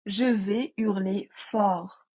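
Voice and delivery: very slow, each word laid out; slow exercise reading. Shown as a demonstration. Teacher reading a test sentence slowly, deliberate and slow. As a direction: read it slowly for students to spot the error. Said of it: "Première phrase".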